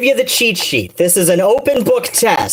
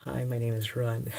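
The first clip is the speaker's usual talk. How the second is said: mocking quote; 7 semitones lower, 17 dB quieter than usual. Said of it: "every video it's like".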